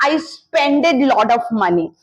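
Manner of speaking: I spended lot of money said slowly, mocking the error; lightly mock the wrong form; slow quoted mistake; quoting a mistake. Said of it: "कोई मुझे बोल रहा था".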